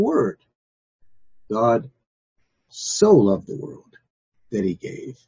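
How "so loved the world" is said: slow, so leaned on; so drawn out slowly; stress on so. Shown as a demonstration. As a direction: emphasise so in so loved. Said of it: "Not just that he loved".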